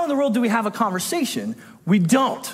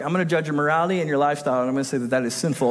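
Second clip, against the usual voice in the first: mock judgmental voice; 7 semitones lower, much faster than usual. Mocking a judgmental churchgoer.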